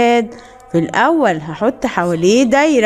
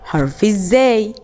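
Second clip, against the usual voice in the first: slow model word. Shown as a demonstration. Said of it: "حرف ايه اللي معايا".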